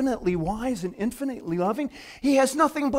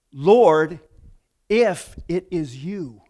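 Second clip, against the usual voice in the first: reverent; 4 semitones lower, much slower than usual. Retold or imitated. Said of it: "Peter said".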